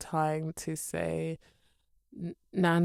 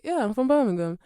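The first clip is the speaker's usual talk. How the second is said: louder, higher insistent Birmingham; pressing the point, louder and higher; insistent repeat; 5 semitones higher, 8 dB louder, faster than usual. Retold or imitated. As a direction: insist on it the second time. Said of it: "not saying it exactly how I said it".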